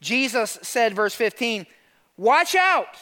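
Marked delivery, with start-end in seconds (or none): 2.2-3.0 high, forceful warning cry; punched, higher-pitched warning; emphatic warning. Retold or imitated. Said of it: "Like, it's emphatic".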